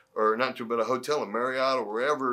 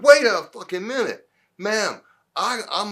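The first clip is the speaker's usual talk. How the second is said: mock outrage; 8 semitones higher, 8 dB louder than usual. Rival protests the upgrade.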